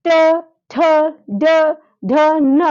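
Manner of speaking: ट, ठ, ड, ढ, न said one at a time with pauses; letter demo. Shown as a demonstration. Teacher asking students to say the letters, deliberate and clear. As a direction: model each retroflex letter distinctly. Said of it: "अब आप लोग बोल के देखिए".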